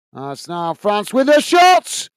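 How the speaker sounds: drawn-out call rising to a peak; live commentator's swelling excitement; excited shot call. Real, not acted. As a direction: build in pitch and volume as the shot comes.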